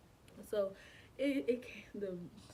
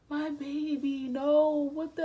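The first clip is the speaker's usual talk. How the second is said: loud, high cry of disbelief; distraught outcry; 6 semitones higher, 11 dB louder, slower than usual. Retold or imitated. Mother reliving the shock of seeing blood, distraught outcry. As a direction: cry out in panic, drawn out at first. Reenacting shock at losing the baby.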